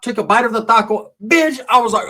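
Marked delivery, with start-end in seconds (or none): 1.2-1.6 high, punched-out mock fight yell; mock fighting shout. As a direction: imitate a woman punctuating each blow. Acts Sheila mid-fight.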